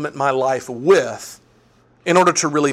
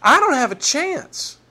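disciples; 13 semitones higher than usual. Retold or imitated. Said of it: "They were like".

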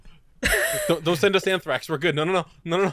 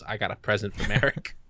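menacing Joey; 6 semitones lower than usual. Retold or imitated. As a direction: say it low like a calm threat. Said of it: "he goes".

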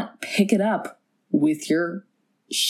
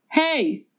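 mock yell; 8 semitones higher than usual. Co-host retells him yelling, mild mock yell. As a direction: imitate a man yelling for help. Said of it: "He does yell".

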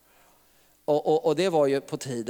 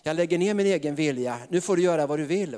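mild desperate prayer. Retold or imitated. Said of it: "när man ropar så där desperat".

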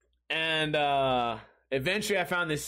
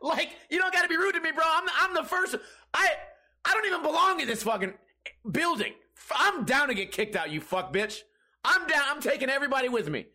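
high, heated mock tirade; indignant rant; 11 semitones higher than usual. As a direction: blow up at a rude stranger. Acted rant at seat owner.

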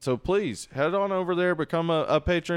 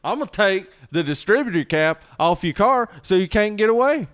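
louder, higher hammed-up redneck threat; 3 semitones higher, 6 dB louder than usual. Riffing on the joke with a loud hammed-up redneck threat. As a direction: ham up a backwoods threat. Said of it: "That is redneck".

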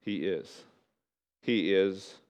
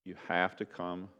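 measured invitation with long pauses; altar call; 3 semitones lower than usual. Real, not acted. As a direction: gently lead them toward prayer, phrase by phrase. Closing invitation with bowed heads.

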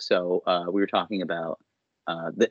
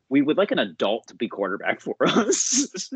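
mock official statement; 3 semitones higher than usual.

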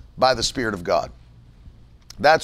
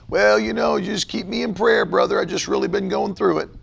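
mock pity plea; 5 semitones higher than usual. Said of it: "when you're talking about yourself".

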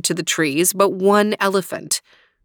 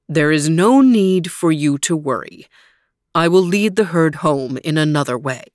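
reassuring elephant king; 2 semitones lower than usual. Acted. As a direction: comfort the small mouse gently. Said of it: "He said".

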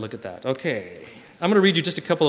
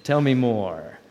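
plain pace, a wink of knowing; the classroom version, brisk and knowing; knowing tell me more; much slower than usual. Shown as a demonstration. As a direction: say it like you're in on the joke. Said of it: "now you knew it".

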